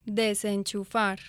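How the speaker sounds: "Desenchufar" drawn out slowly for the learner to copy. Shown as a demonstration. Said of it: "Listen and repeat".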